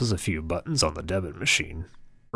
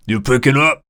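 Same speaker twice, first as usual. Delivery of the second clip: louder, higher, fed-up waiter shout; angry yell; 9 semitones higher, 12 dB louder than usual. Acted. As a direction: yell You picking up? at him. Waiter yelling again.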